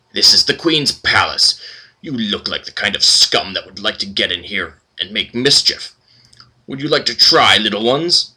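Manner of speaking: lightly voiced condescending sneer; flamboyant guard. Flamboyant guard sneering at the party at the gate, condescending. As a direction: look down on the scum at the gate.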